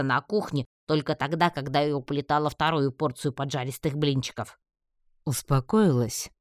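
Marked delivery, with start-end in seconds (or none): 5.2-6.3 slow, needling question; teasing, stretched-out jab; snide. A narrator's reading. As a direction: ask it with drawn-out mockery. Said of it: "ехидно осведомился он".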